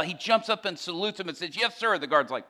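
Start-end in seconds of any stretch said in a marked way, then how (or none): 1.6-2.0 loud, high "reporting" shout; saluting reply. Retold or imitated. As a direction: answer a guard like a saluting recruit. Inmate jumps up and salutes guard.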